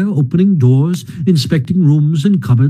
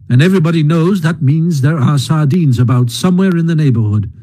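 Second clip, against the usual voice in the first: higher, brisk coaxing Rat; lightly voiced hearty Rat; 3 semitones higher than usual. Rat coaxes Mole to forage, brisk and higher. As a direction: rouse a gloomy friend briskly.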